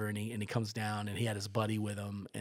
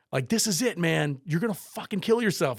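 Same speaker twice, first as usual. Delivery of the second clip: high, loud exasperated plea; re-enacted alarmed warning; 7 semitones higher, 7 dB louder than usual. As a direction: warn a reckless friend emphatically. Warning friend before third jump.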